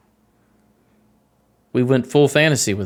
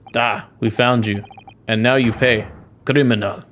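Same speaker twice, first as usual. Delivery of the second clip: put-on accusing sailor in a rough-and-ready Russian accent; amateur Russian accent, accusing; horrible Russian accent. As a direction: do a badly faked Russian accent. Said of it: "Sorry for my horrible accent".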